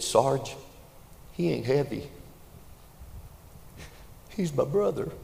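put-on young private yells back to his sergeant; boy yelling back. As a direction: shout it back, full of conviction. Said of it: "the boy yelled back".

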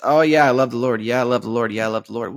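a repeated, hollow church phrase that fades each time; mocking rote faith talk. Mocking his own word salad about loving the Lord, fading hollow repetition. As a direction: parrot the line like empty word salad. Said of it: "I just do word salad".

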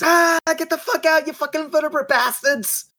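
stomp them out, shouting; angry yell. Acted. Bobby jumping on his tent yelling at scorpions, angry.

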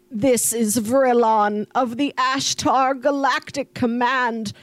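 lightly voiced robotic broadcast; a hint of a creepy robot voice; robotic alien voice. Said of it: "creepy kind of robotic voice comes on saying".

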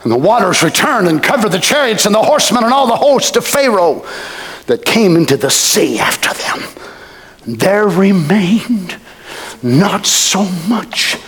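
solemn preacher reading; solemn scripture reading. Acted.

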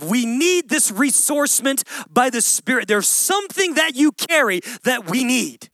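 loud, urgent imploring plea; loud begging cry for help; pleading. Retold or imitated. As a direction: beg them to come, calling out.

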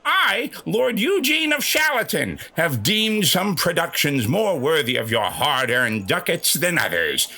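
pompous Olde English herald; town crier. Acted. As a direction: proclaim it like a royal crier. Mock Elizabethan proclamation.

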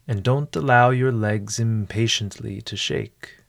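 measured instructions with long pauses; guided meditation. Acted. Host settling a listener before a mindful meal, guided meditation. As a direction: guide the listener unhurriedly, leaving room after each step. Leads a mindful eating exercise.

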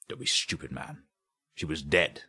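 brusque put-down; exasperated inspector. Acted. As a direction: scoff at a foolish claim. Inspector scolds frightened suspect.

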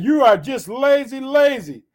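loud, forceful Pharaoh; shouted rebuke. A narrator's reading. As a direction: shout it as an accusing ruler. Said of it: "But the Pharaoh shouted".

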